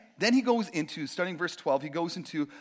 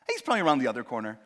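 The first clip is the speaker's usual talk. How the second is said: forced optimism; 3 semitones higher, 6 dB louder, faster than usual. Retold or imitated. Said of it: "I'm just trying to stay positive".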